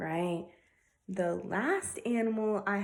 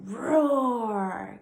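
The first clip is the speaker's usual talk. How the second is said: lion roar; 4 semitones higher, 6 dB louder than usual. Shown as a demonstration. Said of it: "give me your best roar like a lion".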